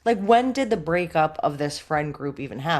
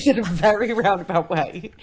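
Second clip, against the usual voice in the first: teasing echo; 2 semitones higher, 5 dB louder than usual. Real, not acted. Teasing echo of co-host's phrase.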